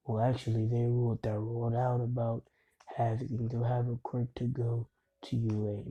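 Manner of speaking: understated, even delivery; mildly matter-of-fact retold reply; bland voice. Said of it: "with the bland voice".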